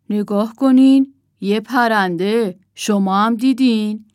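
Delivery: loud, slowed alert; urgent pointing. Acted. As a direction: make them look quickly. Owl spots a bird.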